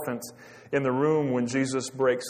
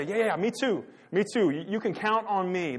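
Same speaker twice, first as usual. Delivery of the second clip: mock eager agreement, pitched up; high, overeager me-too voice; eager followers chiming in; 6 semitones higher than usual. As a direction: imitate the others piling in with promises. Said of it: "what does everybody else say?".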